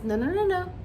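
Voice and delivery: lightly voiced indignant dad; a hint of a man playing the victim; mocking Martell. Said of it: "I just says".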